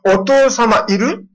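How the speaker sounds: put-on high, slow, drawn-out child's question; a child checking whether the father is home; little girl asking. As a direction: ask it like a timid little girl. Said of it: "毎朝こう言うんですよ".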